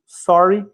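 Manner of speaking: sorry with a bright rising question tune; a polite, rising sorry. Shown as a demonstration. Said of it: "ó, somente isso".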